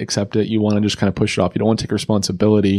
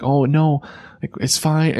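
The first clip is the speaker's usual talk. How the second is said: mock defensive brush-off; 6 semitones higher, slower than usual. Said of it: "I can still get defense about that".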